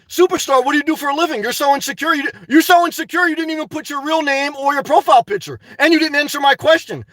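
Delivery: indignant challenge to a chatter; confronting a heckler. Real, not acted. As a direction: call out the anonymous troll. Tells off an anonymous chatter.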